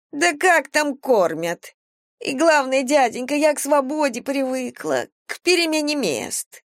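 high, pleading vagrant voice; whiny homeless woman. Acted. Vagrant thief excuses herself to the captain, high and whiny. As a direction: talk your way out, high and whiny.

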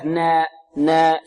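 drawn-out نا with the vowel tilted toward e; wrong imala demo. Shown as a demonstration. Teacher isolates the mistake for students, wrong imala demo. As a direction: stretch نا with a fronted, tilted alif. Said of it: "فيها تقليل أو فيها إمالة".

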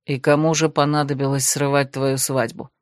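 a touch of doubt in a low male voice; lightly voiced skeptical man. Desmond questions the bride's fears, mildly skeptical. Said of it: "скептически заметил Десмонд".

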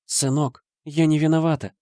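high, pleading mother; desperate excuse. A narrator's reading. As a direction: plead her innocence in despair. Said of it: "отчаянно оправдывалась мать". (отчаянное оправдание)

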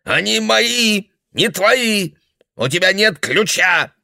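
put-on very high, slow shrieking old man; guard his treasures in a rage; old man screaming that the valuables are his; possessive old man shouting.

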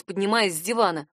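plain reading voice

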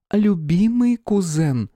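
slow, high, mocking sweetness; smiling princess. Princess mocking her beaten cousin, smiling. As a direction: savour the words with a smile. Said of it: "Шариада улыбнулась".

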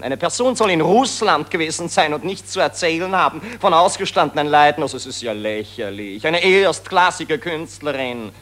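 fast, loud, pushy insistence; a reporter rushes and badgers the actress; agitated badgering. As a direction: rush her with indignation. Reporter pressures her.

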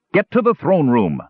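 high, urgent bellowed order; thunderous bellow. A narrator's reading. Flint to hundreds of panicking Agar, bellowing. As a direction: call out over a panicked crowd. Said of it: "Flint's voice was a thunderous bellow".

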